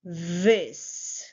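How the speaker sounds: THIS with a long voiced th; pronunciation demo. Shown as a demonstration. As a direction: buzz into THIS, slowly, falling. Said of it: "turn your voice on".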